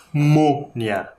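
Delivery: mônia with the ô sent through the nose; nasal ô. Shown as a demonstration. Teacher showing a nasal accent, mônia with a nasal ô. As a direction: let the first vowel of mônia hum nasally. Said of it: "parece que sai pelo nariz o som".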